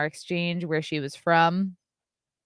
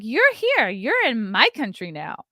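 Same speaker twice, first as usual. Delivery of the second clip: mock indignant; 4 semitones higher than usual. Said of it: "I'm like".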